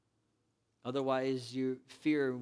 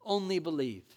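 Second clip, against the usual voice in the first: tag. Acted. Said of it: "Jesus heard the word spoken to him and said".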